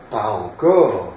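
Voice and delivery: slow, grave pronouncement. A narrator's reading. Charles answering Turando's question, gravely. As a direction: weigh it gravely, slow and firm. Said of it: "répondit gravement Charles".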